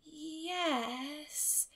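small, soft reluctant yes; admitting. A narrator's reading. Anne admitting to Marilla she touched it, soft. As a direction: own up quietly. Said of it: "admitted Anne".

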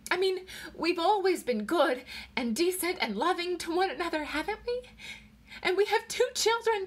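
high, anxious pleas for reassurance; tearful pleading. A narrator's reading. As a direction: plead desperately, pitched high. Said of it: "she cried".

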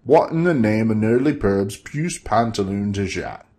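lightly voiced herald, slowing on the last words; a hint of a puzzled courtier; Gobblesniff's voice. Gobblesniff staring at Bob, lightly voiced puzzled herald.

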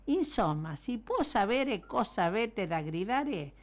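storybook shout from a sleepless neighbor; yelled complaint. A narrator's reading. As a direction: yell down at the noisy men. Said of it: "urlò un signore affacciandosi".

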